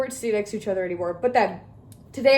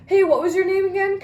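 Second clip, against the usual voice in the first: bright, higher, innocent question; polite mock sweetness; higher sweet asking; 8 semitones higher, 3 dB louder than usual. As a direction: fake friendly, higher. Asking his funky name again.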